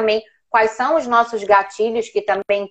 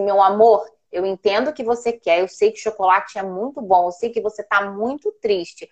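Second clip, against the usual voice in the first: put-on calm parent soothing a child; measured, patient mother voice; gentle but firm. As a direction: reason tenderly with an upset child, unhurried. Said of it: "Falei assim".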